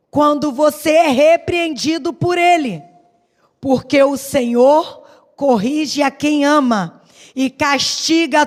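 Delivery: measured, solemn Bible reading; scripture reading. Acted. Reads Hebrews 12 aloud. (leitura bíblica solene)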